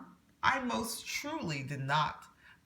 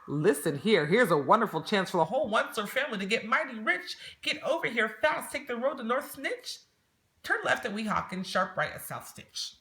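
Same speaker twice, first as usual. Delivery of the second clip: high fast eager rush; excited sales pitch; 6 semitones higher than usual. Acted. Onceler phoning his family, fast and thrilled.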